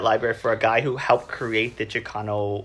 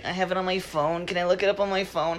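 higher, apologetic mumble; cringing apology at the counter; embarrassed patron apologizing meekly, higher and meek; sheepish apology; 8 semitones higher than usual. Retold or imitated. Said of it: "I shrink every time".

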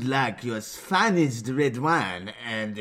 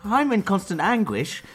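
high, loud hammed-up show announcer; show intro voice; 10 semitones higher, 4 dB louder than usual. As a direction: belt the intro like a cheesy host. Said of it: "you haven't said that in years".

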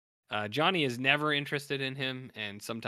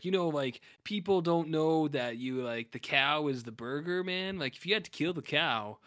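stoner philosopher; 3 semitones higher than usual. Retold or imitated. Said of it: "he's kinda talking like that".

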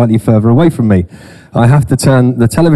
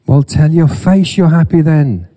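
higher, playful headteacher chiding; mock school principal; 5 semitones higher than usual. Preacher teasing glum faces like his old principal. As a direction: chide them like a cheeky old principal. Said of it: "My old principal at my college used to say that".

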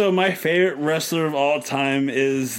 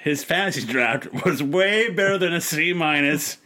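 mock serious apology. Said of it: "Serious face".

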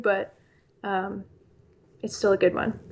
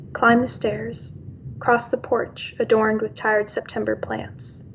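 poem reading. Acted. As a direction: let each line land, unhurried. Reads her own poem.

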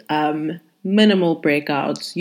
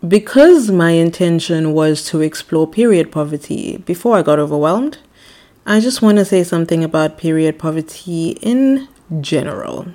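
louder, formal cabin announcement; air hostess voice; 5 dB louder than usual. Acted. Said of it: "put on my air hostess voice".

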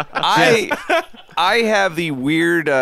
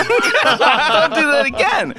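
high, slow angry retort, retold; angry outburst; 11 semitones higher, 4 dB louder, much slower than usual. Man retelling his feeble scolding of the restaurant, angry outburst. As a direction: draw out a mock-furious telling-off. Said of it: "And I said it angry".

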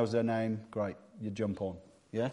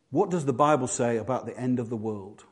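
softer, lower search-query voice; typing aloud; 4 semitones lower, 5 dB quieter than usual. Acted. Preacher acts someone searching on their phone, typing aloud. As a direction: say it to yourself as you type. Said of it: "get your phone out and type in".

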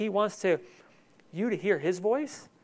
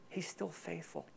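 softer on "still faithful", almost a breath; near-whispered; 16 dB quieter than usual. Real, not acted. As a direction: let it drop to nearly nothing. Repeats it even softer.

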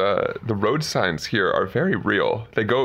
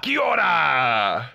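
drawn-out Kiwi greeting, pitched up; slow, higher hammed-up Kiwi accent; put-on Kiwi accent; 4 semitones higher, much slower than usual. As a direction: sing out a long mock New Zealand hello. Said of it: "all accents aside".

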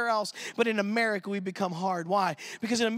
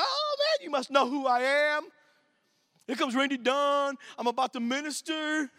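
boastful excitement; 3 semitones higher than usual. Retold or imitated. Imagining crowd knows him.

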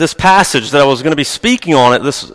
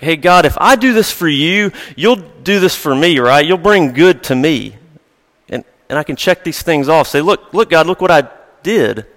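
transactional believer; 3 semitones higher than usual. Retold or imitated. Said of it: "her view was very transactional".

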